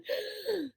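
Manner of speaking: quick shocked intake of breath; sharp gasp. A narrator's reading. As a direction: gasp in fright. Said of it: "Grover gasped".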